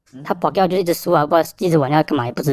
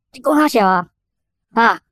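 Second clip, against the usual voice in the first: angry retort; 7 semitones higher than usual. Retold or imitated. Officer furious at the father.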